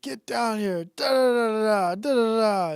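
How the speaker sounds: high mock scolding; imitating an angry mom yelling. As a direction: impersonate a shrill-voiced nagging mom, half-hearted. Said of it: "just yelling at the kid".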